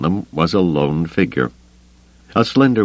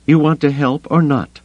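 higher, impatient challenge; impatient woman; 9 semitones higher than usual. Acted. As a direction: snap it out impatiently. Mara voiced, impatient.

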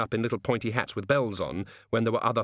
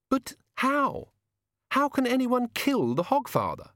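much higher, urgent questioning; Susan, alarmed; 5 semitones higher, slower than usual. A narrator's reading. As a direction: press him for answers.

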